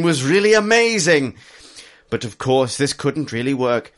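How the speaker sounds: chipper upbeat. Acted. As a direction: read it like it's the best news ever. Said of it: "A really chipper, upbeat grudge".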